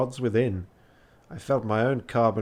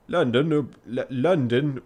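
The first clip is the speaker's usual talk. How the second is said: fumbling for Yorkshire vowels; attempted Yorkshire accent; 2 semitones higher, 3 dB louder than usual. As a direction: test the word in shaky Yorkshire. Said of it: "I'm trying".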